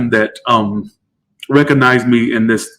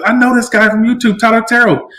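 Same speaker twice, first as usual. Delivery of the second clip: retold excited fan; 9 semitones higher than usual. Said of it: "She's yelling my name".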